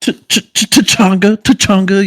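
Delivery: high, loud stuttered cartoon catchphrase; Chick Hicks. Friend imitating the green car from Cars, cartoon jerk voice. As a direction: imitate an obnoxious cartoon race car, stammering into it. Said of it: "You know, the asshole".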